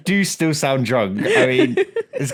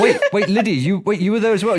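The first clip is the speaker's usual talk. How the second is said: laughing; 8 semitones higher than usual. Real, not acted. Laughing excited interruption.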